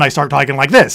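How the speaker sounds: put-on on-camera presenter delivery. Shown as a demonstration. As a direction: switch into your camera persona. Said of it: "whenever I get in front of a camera".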